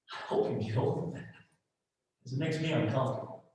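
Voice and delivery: whispered, dismissive motherly aside; whispered uneasy mother; Mama Glenn's dismissal. Retold or imitated. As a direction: hush it like a worried mother brushing it off. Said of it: "What did Mama Glenn say?".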